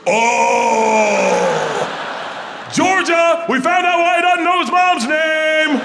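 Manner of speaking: high, shouted little-sister voice; little girl's revelation. Retold or imitated. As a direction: yell the discovery to your sister. Isla's sudden realisation, shouted to sister.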